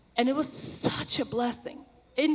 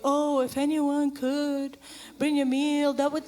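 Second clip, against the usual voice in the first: passive-aggressive hint. Retold or imitated. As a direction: drop a hint instead of asking. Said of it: "not passively aggressively".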